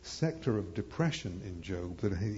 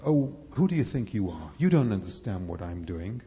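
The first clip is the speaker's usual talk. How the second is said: a stern, scolding dad, somewhat louder; mock angry father scolding a child; 4 dB louder than usual. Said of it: "And the angry father saying".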